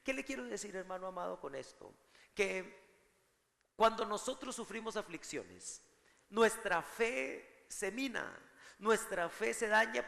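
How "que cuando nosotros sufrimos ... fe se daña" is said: slow, higher, drawn-out preaching; slow, lifted preacher's emphasis; slow emphatic preaching. Real, not acted. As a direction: lean on every word for the congregation. Preacher stresses the point slowly.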